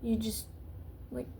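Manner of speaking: intense hushed whisper. Real, not acted. Vlogger whispering her point, intense. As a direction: lean in and whisper it.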